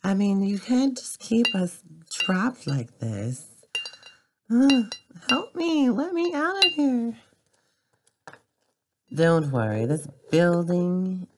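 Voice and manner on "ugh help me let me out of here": much higher pleading cry; high plea for help. Pretend. Trapped character begs to get out, high pleading cry. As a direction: beg to be let out, pitched way up.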